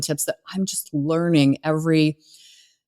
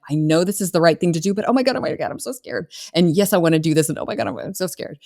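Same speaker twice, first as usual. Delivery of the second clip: mock scared client; faster than usual. Client torn about hiring her, mock scared. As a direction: play the anxious client torn between yes and fear. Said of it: "push me, pull you kind of a thing".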